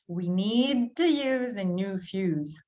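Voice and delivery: slowed down with words run together; slow it down and blend the words; slow blended reading. Shown as a demonstration. Teacher slowly showing learners the blending. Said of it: "notice how we have blending here".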